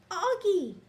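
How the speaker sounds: high, loud joyful cry; glad cry. A narrator's reading. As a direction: cry out his name in relief. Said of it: "she cries".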